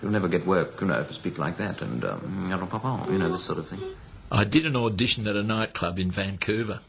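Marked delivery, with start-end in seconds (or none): 0.0-3.8 mock upper-class English accent; posh English accent. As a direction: imitate a disapproving English gent. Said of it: "everybody says".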